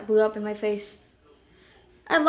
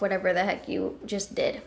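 muttering under breath; 2 semitones lower, 6 dB quieter than usual. Acted.

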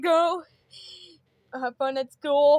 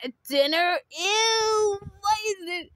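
whiny crying; 4 semitones higher than usual. Acted. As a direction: fake crying kid. Kid whining about dinner.

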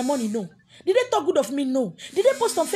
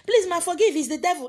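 a hammed-up tearful plea, a bit higher and louder; mock pleading; 5 semitones higher, 6 dB louder than usual. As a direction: mimic a whiny begging critic. Mocking a pleading critic.

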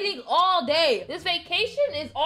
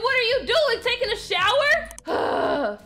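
sarcastic jab; 5 semitones higher than usual. Acted. Mocks the slow crew.

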